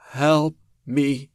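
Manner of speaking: high, loud, eerie plea from a broken creature; the broken monster begging for help; pleading monster. A narrator's reading. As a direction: beg like something barely human. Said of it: "the thing pleaded".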